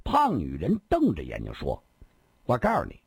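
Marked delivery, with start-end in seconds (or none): 2.4-3.0 lightly voiced swaggering villainess; a hint of a greedy, self-important woman; boastful fat woman.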